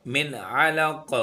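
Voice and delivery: slow, each sound stretched out; drawn-out recitation. Shown as a demonstration. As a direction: pronounce मिन अलक slowly and stretched. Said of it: "सीन को एक अलिफ के बराबर खींचेंगे".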